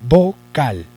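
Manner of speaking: VO-CAL in two separate beats; "vocal" broken slowly in two; split into syllables. Shown as a demonstration. Teacher spells out key word.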